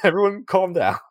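high, loud mock plea; frantic peacemaker. Host mimics gang trying to stop a fight, frantic peacemaking. Acting out bystanders calming the fight.

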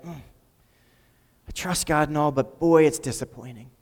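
slow, sighing, resigned aside; resigned disappointment. Retold or imitated. Voicing a resigned believer's thought.

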